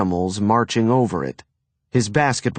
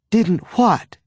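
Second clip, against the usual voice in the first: sharp mother; 9 semitones higher than usual. A narrator's reading. Mother questioning son.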